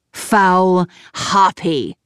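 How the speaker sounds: slow, spat-out mild rage; raging insult. Acted. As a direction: drag the insult out with contempt. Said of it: "Minos raged on".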